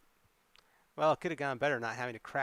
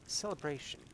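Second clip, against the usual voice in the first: softer, trailing echo of the word; fading echo; 2 semitones higher, 7 dB quieter than usual. Acted. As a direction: let "Celebration" die away softly, lost in thought. May repeats word, fading.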